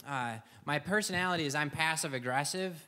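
ordinary delivery

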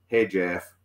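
light imitation of a Southern accent; a half-hearted Southern accent impression; the speaker's Southern accent. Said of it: "my best Southern accent".

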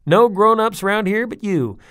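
put-on high, loud little kid; plain-spoken tough kid; child's voice. A narrator's reading. Chaz answers her dad like a blunt little kid. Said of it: "said Chaz".

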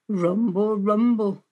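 loud rolling stomach rumble; lightly growly sound effect; rumbling tummy. A narrator's reading. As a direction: imitate a hungry belly with the words. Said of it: "rumbled the wolf's tummy".

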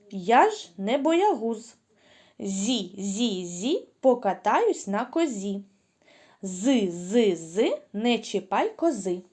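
put-on rhythmic chant for children; sing-song chant to be repeated; tongue-twister demo. Shown as a demonstration. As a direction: clear chanting rhyme for kids. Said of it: "Спочатку послухайте".

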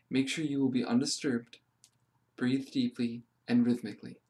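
calm meditation reading with pauses between phrases; guided meditation. Acted. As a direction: read them gently through an inner journey, phrase by phrase. Reads a guided meditation aloud.

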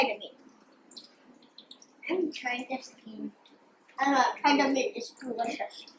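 talking while chewing; speaking between bites; mouth full of chicken. Real, not acted. Seen 1: Boy in pink bites chicken at start, then talks while chewing.

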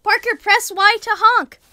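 high, loud giddy calls; excited, laughing. Real, not acted. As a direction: squeal it with glee. Gleeful laughing at honk.

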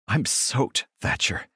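gasp. Acted. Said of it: "I gasp back".

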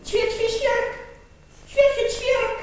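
a sparrow's chirrup; sparrow chirp. Acted. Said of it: "Na to wróbel zaterlikał".

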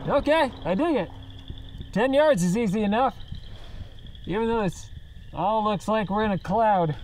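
speaking inside a respirator; muffled through a gas mask. Real, not acted. Seen 1: Full gas mask worn over face throughout; references show no mask.

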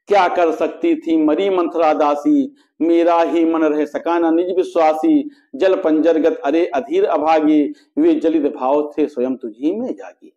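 measured, metrical verse reading with sustained line endings; poetry recitation. A narrator's reading. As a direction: recite the couplets in a steady, declaimed rhythm. Recites the queen's lament in verse. (लयबद्ध काव्य-पाठ)

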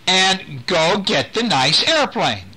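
slow, high coaxing call. Acted. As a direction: lure him gently toward the airplane. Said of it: "Nick is calling to him".

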